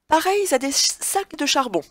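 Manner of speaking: "Pareils à" with the liaison Z sounded. Shown as a demonstration. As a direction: link "Pareils" into "à" with a Z. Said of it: "J'ai fait exprès de faire la liaison".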